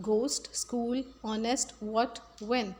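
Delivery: ghost, school, honest, what, when with no H sound; ghost, school, honest, what, when as silent-H examples. Shown as a demonstration. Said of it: "इन सब में एच silent है".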